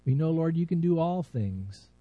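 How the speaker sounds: earnest, unhurried pastor's prayer voice; heartfelt prayer. Acted. Pastor praying over his congregation, earnest and reverent.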